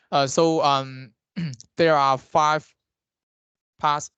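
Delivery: speaking up so he's heard. Real, not acted. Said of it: "now it's good".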